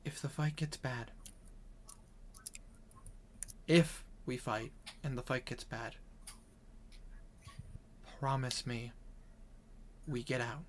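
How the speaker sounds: soft, hesitant plea with long pauses; earnest healer. Acted. Healer asking a friend to flee a bad fight, softly earnest. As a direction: quietly ask for a serious promise. Character asks a grave favor.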